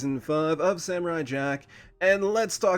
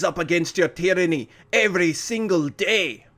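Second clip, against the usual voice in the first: mock tirade. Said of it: "he just lays into him".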